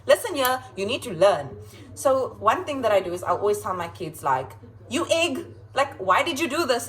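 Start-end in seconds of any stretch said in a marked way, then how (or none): 0.1-1.6 louder, playful teacher's scolding; mock telling-off. Teacher correcting a silly mistake, playful scolding. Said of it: "like, showing them that". 4.9-6.9 higher, animated mock telling-off; playful scolding. Teacher teasing a kid over a mistake, playful scolding. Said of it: "you just gotta make it fun".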